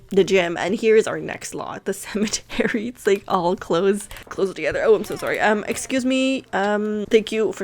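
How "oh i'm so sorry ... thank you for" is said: hiccupping between words; suppressing hiccups. Real, not acted. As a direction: talk through the hiccups. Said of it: "sorry, I have the hiccups".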